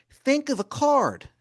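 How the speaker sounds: slow showman tease for the card trick; wizard voice, slow. Acted. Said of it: "he goes".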